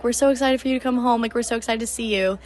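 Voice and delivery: a touch of retold excitement; imitated excitement. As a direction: imitate parents eager for a homecoming. Voices parents' excitement on phone.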